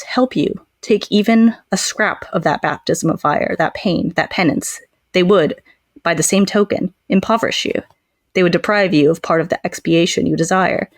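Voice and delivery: measured book reading voice; reading aloud. Acted. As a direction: read the vampire's speech evenly. Reads Regis's speech aloud.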